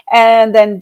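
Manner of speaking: ordinary delivery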